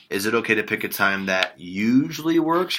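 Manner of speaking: slow, "usually works" given extra weight; relaxed ask with "usually works" stressed. Shown as a demonstration. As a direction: press gently on "usually works" to make it easy to agree. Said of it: "You wanna stress that word usually works".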